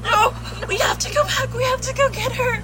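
tearful, desperate urging; crying plea. Acted. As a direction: plead through tears. Crying to go back.

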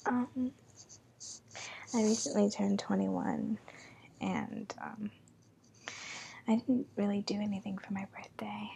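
breathy whisper, close to the mic. Real, not acted. Holds whisper throughout.

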